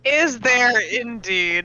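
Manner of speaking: slow drawn-out doubtful tease; mock skeptical. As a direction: stretch it out, playfully unconvinced. Shopkeeper teasing the customer.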